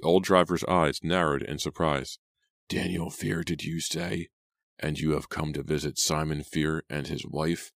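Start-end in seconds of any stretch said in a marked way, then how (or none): 2.7-7.7 put-on an old man sizing up a stranger; suspicious old cabby.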